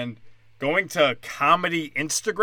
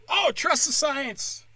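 sarcastic mock; 10 semitones higher, slower than usual. Mocking a slogan, sarcastic.

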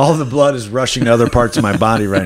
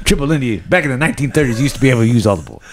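cigar in mouth; faster than usual. Retold or imitated.

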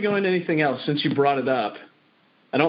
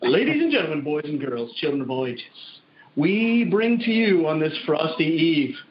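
ringmaster; 2 semitones higher than usual. Pretend. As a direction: introduce the star act under the big top. Grand introduction of the guest.

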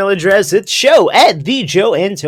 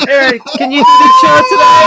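put-on high, loud, fast whiny baby wail; crying baby voice; 6 dB louder, faster than usual. Host asking Aaron to do the show, as a wailing baby. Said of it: "I sound like the baby crying".

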